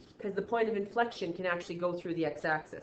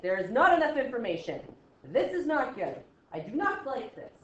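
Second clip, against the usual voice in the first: louder, higher mock-panicked student protest; worried student; 4 semitones higher, 5 dB louder than usual. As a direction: play the student who is thrown, raised and higher. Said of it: "You're like".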